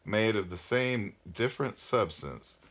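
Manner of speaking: measured read-aloud with phrase-end pauses; story narration. A narrator's reading. Parent reading a novel aloud to listeners, storytelling.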